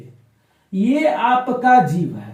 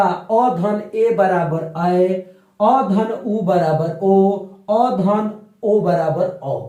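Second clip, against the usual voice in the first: slow sum of vowels; slower than usual. Shown as a demonstration. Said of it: "ये बताए हैं".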